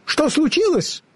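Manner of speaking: very high, squeaky squirrel voice; squeaky derisive question; mocking squirrel. A narrator's reading. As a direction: ask tauntingly as a tiny squirrel. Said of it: "насмешливое чоканье белки".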